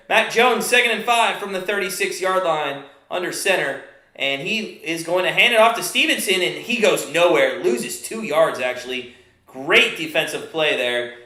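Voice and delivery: live football call, steady pace; play-by-play. Acted. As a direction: call the downs like a broadcaster.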